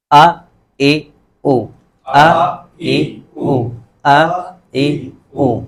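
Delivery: آ اے او sounded slowly from the throat; alif sound demo. Shown as a demonstration. Teacher modelling alif vowels for students, slow. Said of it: "ابھی تو کوشش کرتے ہیں ہم".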